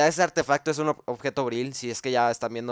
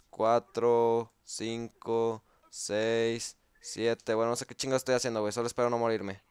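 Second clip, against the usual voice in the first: ordinary delivery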